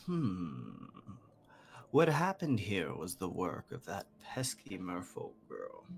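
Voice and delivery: low musing hum, then stately creature speech; gargantuan bird, pondering. Acted. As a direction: ponder aloud as a genteel giant bird. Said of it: "the bird sort of".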